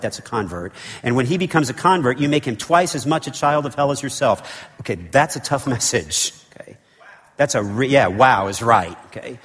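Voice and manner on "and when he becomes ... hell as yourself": prophet preaching. Acted. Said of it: "like an Old Testament prophet preaching here".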